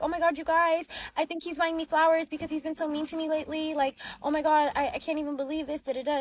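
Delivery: retold excited gushing. Wife acted hopeful about flowers.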